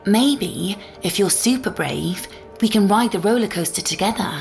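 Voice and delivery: lilting, upbeat mommy voice; coaxing a child. Acted. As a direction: win a little one over with a treat. Mother coaxes child with rival plan.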